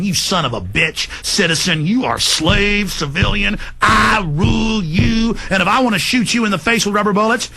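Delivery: mocking cop voice.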